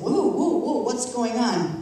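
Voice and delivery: imitating husband easing off her outburst; startled husband. Husband walking in on her yelling, startled, then slow. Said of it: "and he said".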